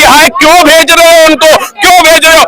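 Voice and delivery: imitating chest-beating objectors; a touch of mock indignation; mock outraged protest. Man mimicking secular critics who object to deportations, mock outraged. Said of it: "छाती पीटने के लिए".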